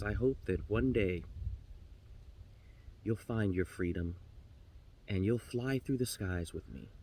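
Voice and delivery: low, soft, grave counsel; resigned raven. Acted. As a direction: give a quiet parting warning. Raven gives up, gently warns canary.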